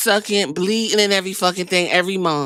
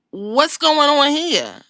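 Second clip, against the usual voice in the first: slow, higher, puzzled question; mock bafflement; 5 semitones higher, slower than usual. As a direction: draw it out in playful confusion. Retells own baffled reaction.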